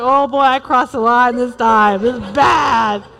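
realizing she went too far; mock worried. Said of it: "I was like".

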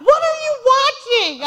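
the husband asks what she recorded, in mock alarm. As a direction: play the shocked husband. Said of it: "He's looking at me like I'm just".

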